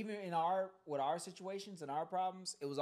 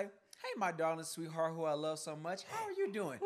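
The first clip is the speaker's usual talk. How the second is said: mock-sweet greeting. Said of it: "pick up the phone and say".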